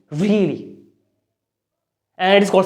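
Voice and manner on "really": "really" drawn out with a falling tune; stressed really. Shown as a demonstration. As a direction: lean on the word "really". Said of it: "So I'm stressing on really".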